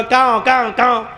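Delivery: mock crow caws; a light crow caw. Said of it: "कौवा भी रो रहा था".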